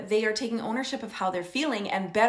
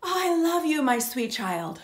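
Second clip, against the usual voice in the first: loving parent; 4 semitones higher than usual. Retold or imitated. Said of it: "So you could say".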